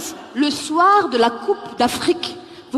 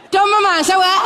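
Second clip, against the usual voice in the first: higher, louder mock Malian call; Malian greeting; 6 semitones higher, 4 dB louder than usual. Malian man greeting loudly, accented. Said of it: "Ça donne, euh".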